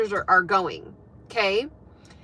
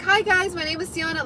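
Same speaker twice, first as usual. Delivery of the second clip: mock casual introduction; 6 semitones higher than usual. Teller imagining herself introducing herself to the room, mock breezy. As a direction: act out a breezy self-introduction.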